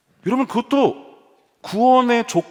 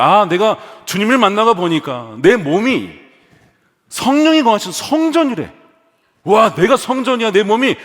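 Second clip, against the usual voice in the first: acted wonder, rising high; amazed realisation; 4 semitones higher, 4 dB louder than usual. New believer realising the body is a temple, amazed. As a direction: marvel aloud at a sudden discovery.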